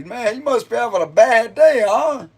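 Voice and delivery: lightly acted quote with a high tag question; imitated movie quote. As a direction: imitate someone probing, pitched well up. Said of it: "He was like".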